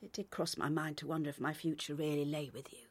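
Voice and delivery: soft whisper of a hard truth; whispered admission. Acted. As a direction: whisper it, ashamed. Painful admission to partner.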